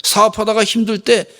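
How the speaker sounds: preacher voicing God challenging complainers; God rebuking. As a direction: press the listener with each question. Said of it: "이러시는 것 같아".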